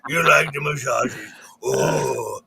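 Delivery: lightly cooed talk to a dog, a little low; pet talk. Retold or imitated. Host replaying massaging his mutt, pet talk. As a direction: croon it to a dog being rubbed. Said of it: "And I'm like".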